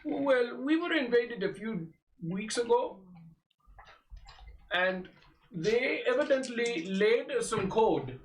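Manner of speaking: lightly voiced old sage; a hint of a wise old mentor; old man voice. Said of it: "Indian Deckard Cain".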